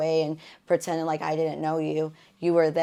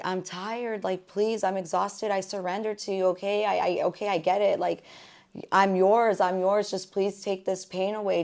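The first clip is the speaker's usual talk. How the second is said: retold screamed plea; 3 semitones higher than usual. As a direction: plead wearily with God, recalling the outcry. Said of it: "I screamed and I was like".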